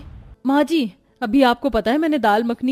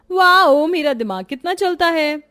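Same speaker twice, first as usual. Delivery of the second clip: gleeful self-praise; 4 semitones higher, 3 dB louder than usual. Acted. Pleased with her trick.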